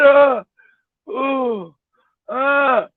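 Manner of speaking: mock sexual moans; imitated moaning. Woman moaning on the bed as he retells it, mock moaning. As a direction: imitate her short, drawn-out moans. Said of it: "she started moaning and shit".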